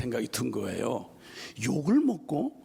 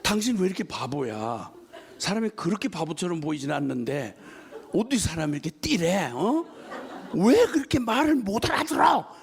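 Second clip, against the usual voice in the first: scolding; 2 semitones higher than usual. Retold or imitated. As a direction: scold him as if he were a fool. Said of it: "막 이러면서". (바보 취급하며 꾸짖는 흉내)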